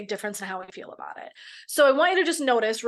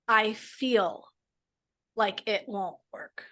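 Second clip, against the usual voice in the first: softer and slow, easing the words; a slow, softer, more tentative take; softer, gentler phrasing; 4 dB quieter, much slower than usual. Shown as a demonstration. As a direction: let it land gently, slowly. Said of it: "notice the difference in your body".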